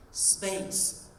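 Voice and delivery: airy exhaled "space"; breathy release. Shown as a demonstration. Coach teaching space, breathy exhaled word.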